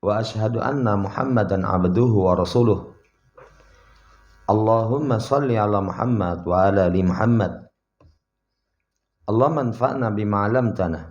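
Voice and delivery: brisk, loud Arabic recitation; formal opening prayer. Acted. Preacher opening the lesson with prayer, formal loud recitation.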